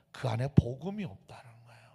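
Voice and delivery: hushed, breathy whisper. Real, not acted. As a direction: drop to a secret whisper. Preacher drops to a whisper.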